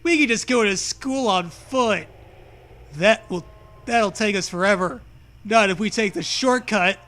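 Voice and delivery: put-on loud, upbeat girl voice; Zoe voice. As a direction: say it like a cheeky friend. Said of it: "she smiles".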